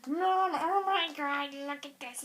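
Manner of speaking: slow, stretched-out call for Mom; excited call to mom. Retold or imitated. Girl calling her mom, slow thrilled call. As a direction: draw it out, thrilled. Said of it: "So I was like".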